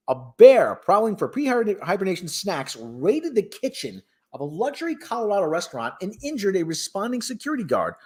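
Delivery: news read. Acted. Host reading bear story to viewers, newscaster delivery.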